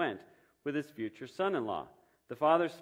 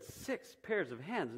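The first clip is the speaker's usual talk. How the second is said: slow, softer disbelief at six pairs of hands; incredulous question; 5 semitones higher, 4 dB quieter, slower than usual. Acted. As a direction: repeat it back as if you can't believe it. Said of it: "shook her head slowly and said".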